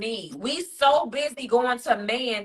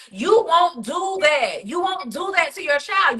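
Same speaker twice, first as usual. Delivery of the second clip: emphatic preaching; 5 semitones higher than usual. Real, not acted.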